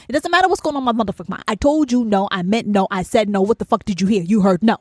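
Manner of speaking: rapid burst, settling into firm repeats; exasperated inner rant. Acted. Ranter's inner voice to someone asking twice, exasperated. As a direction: hammer out the refusal in mock outrage. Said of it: "that's what's going on in my head".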